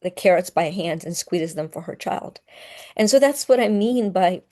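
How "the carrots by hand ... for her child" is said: holding back tears, voice catching; choking up. Real, not acted. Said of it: "yeah, I'm choking up".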